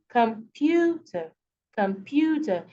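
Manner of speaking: comPUter, middle PYOO syllable brought out; stress on PU. Shown as a demonstration. Teacher repeating the model, computer stressed on the middle syllable. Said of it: "more pronounced than the others".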